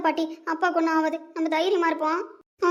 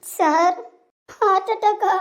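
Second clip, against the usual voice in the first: shocked outcry; 3 semitones higher, 6 dB louder, much slower than usual. Acted. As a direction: hit by the news, cry it out. Wife hears heart attack news. (அதிர்ச்சியில் கூக்குரல்)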